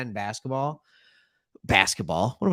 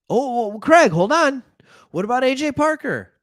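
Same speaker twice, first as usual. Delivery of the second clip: higher, louder mock viewer interrupting; objecting viewer; 9 semitones higher, 6 dB louder than usual. Fan calling out Craig about A J Parker, mock indignant. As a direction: play a fan cutting in with a gotcha.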